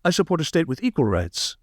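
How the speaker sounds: Mamdani impression. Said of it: "when he says".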